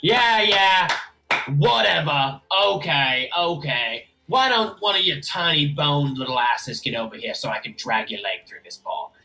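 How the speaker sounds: lightly voiced jeering orc; sarcastic orc. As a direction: heckle like a caged orc. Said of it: "an orc's face come to the bars".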